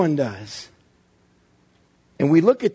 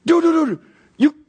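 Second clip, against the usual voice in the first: higher and louder, pleading objection; exasperated protest; 8 semitones higher, 3 dB louder than usual. Acted. Onlooker protests to the brawler that a sucker punch isn't a fight, loud and exasperated. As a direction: call foul on a cheater.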